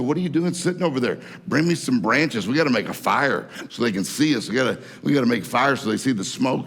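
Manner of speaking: lightly acted stranded man losing it; mock panic. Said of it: "he was just freaking out".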